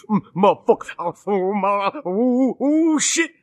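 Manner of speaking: lightly imitated sputtering comic rant, rising at the end; mock pissed-off moaning and cursing; Richard Pryor. Friend retelling an angry phone call, Pryor-style sputtering. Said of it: "he sounded like Richard Pryor".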